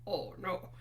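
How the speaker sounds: lightly imitated Scottish accent. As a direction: have a go at McIntyre's Scottish accent. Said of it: "when you talk for McIntyre".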